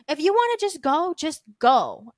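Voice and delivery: imitating a panicked runner, pitch jumping up; mock-flustered urging, loud on the last go; retold panic. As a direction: act out someone starting to panic. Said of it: "she started to panic".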